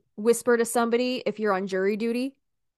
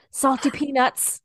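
building excitement; 3 semitones higher, 4 dB louder than usual. Shown as a demonstration. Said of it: "you have to say this".

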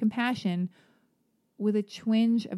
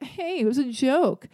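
defensive joker, imitated; 5 semitones higher than usual. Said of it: "you're like".

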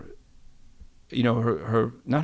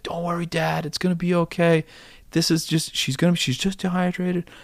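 reassuring nurse; 6 semitones higher than usual. Retold or imitated. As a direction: gently voice a nurse calming a worried parent. Nurse reassures anxious new dad.

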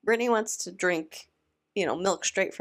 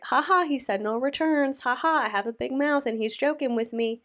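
higher-pitched imitation of laughing it off; mock laughing along; 5 semitones higher than usual. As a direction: imitate someone making light of a joke. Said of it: "even if Brittany's laughing".

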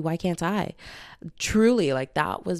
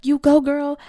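mock cheering; 9 semitones higher, 8 dB louder than usual. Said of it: "And I'm like".

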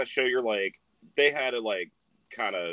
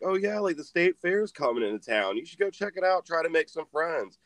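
encouraging grandma; 6 semitones higher than usual. Retold or imitated. Grandma encouraging her grandson, acted out.

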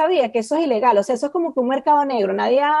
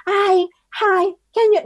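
mock polite; 6 semitones higher, slower than usual. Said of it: "Tú no es".

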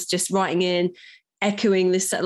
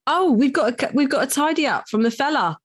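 excited; 7 semitones higher than usual. Real, not acted. Excited announcement of email.

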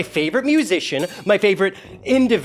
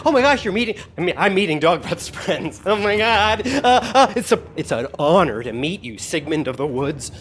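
starstruck gushing. Acted. GM voices starstruck NPC Tarim.

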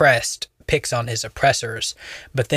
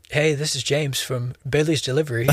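lightly imitating a chipper customer-service voice; a hint of the nerdy white phone voice; 2 semitones higher than usual. Coworker calling a customer, mild mock nerdy phone voice. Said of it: "he would switch from, like, full on, like, gravelly bass voice to".

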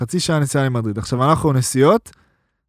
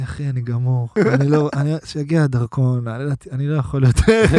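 worn-out moan. Retold or imitated. Exhausted Yogev retold.

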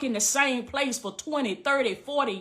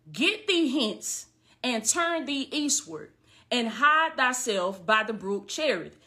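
slow scripture reading; slower than usual. Acted.

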